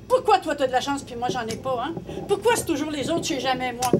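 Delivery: mildly grumbling, put-upon questioning; a touch of aggrieved whining; whining complaint. Acted. Javert complaining to everyone about his bad luck, whining. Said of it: "Il arrêtait pas de se plaindre".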